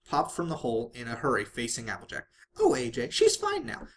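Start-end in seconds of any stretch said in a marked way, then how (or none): 2.6-3.9 very high bubbly reassurance; chirpy Pinkie. A narrator's reading. Pinkie reassures Applejack, very high chirpy voice. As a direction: squeak it out cheerfully.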